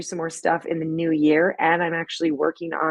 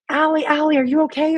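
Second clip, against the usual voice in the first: high, louder cry of alarm; retold screaming; 10 semitones higher, 5 dB louder than usual. Actor calling through doors for Allie, screaming in panic. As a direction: call out in mock panic, pitched well up. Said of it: "She hears me screaming".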